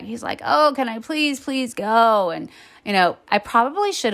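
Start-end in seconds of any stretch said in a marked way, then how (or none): 0.4-2.3 mock begging, pitched up; pleading child. Young son asking mom to take him along, pleading. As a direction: plead like an eager kid.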